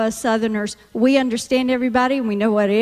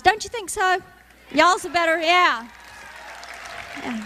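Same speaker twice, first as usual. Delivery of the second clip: ordinary delivery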